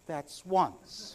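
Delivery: low, hushed punchline warning; deadpan quiet threat. Acted. Wife quietly warns her husband, deadpan and hushed. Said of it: "she said to me quietly".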